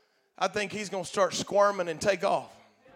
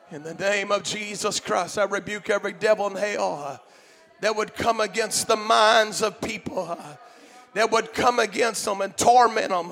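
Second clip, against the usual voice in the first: fierce commanding prayer. Acted. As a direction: rebuke the devil with authority. Leads rebuking prayer.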